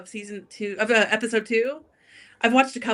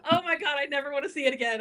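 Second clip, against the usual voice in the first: laughing; 5 semitones higher, faster than usual. Real, not acted.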